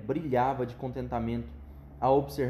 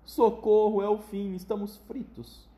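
higher, loud cry fading off slowly; panicked cry; 6 semitones higher, 3 dB louder, slower than usual. Acted. Grandpa Joe as the lift bursts through, crying out. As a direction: cry out for help in mock panic. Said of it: "o vovô José gritou".

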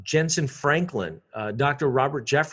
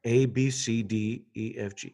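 pinched-nose alphabet; 3 semitones lower, 4 dB quieter than usual. Shown as a demonstration. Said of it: "You pinch your nose".

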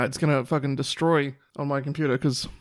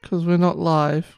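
defeated; slower than usual. Real, not acted. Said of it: "Why do you sound so defeated?".

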